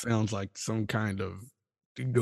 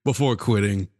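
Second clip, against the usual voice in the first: upbeat show host opener; podcast host intro; 4 dB louder than usual. Acted. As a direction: announce the show with energy.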